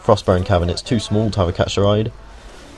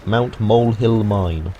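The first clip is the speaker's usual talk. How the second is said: "Mount Molehill Mine" said slowly and evenly; careful repeat; slower than usual. Shown as a demonstration. Guide retrying the tricky name, "Mount Molehill Mine" slow and careful. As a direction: take "Mount Molehill Mine" slowly, each word distinct. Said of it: "really difficult to say".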